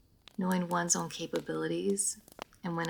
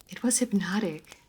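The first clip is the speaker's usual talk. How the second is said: breathy awe; 2 semitones higher than usual. Acted. Reminiscing about the dance.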